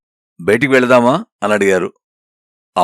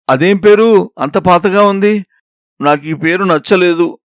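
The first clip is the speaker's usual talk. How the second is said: higher, slow, pouting complaint; mock sulky whine; 6 semitones higher, slower than usual. Girl pretends to sulk to the young man, higher and slow. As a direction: pretend to sulk over his old-fashioned name. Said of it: "అంటూ నేను ఏడుపు మొహం పెట్టేసరికి".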